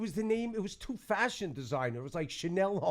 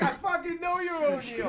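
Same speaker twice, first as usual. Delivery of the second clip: high-pitched, imitated accusation; hammed-up outraged woman, pitched high; mock indignant; 10 semitones higher than usual. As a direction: act out a woman calling out a liar. Voicing the woman calling him out.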